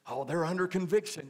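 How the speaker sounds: sing-song judgmental church lady; mocking churchy gossip. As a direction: imitate the know-it-all church folks clucking. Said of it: "You ever say that?".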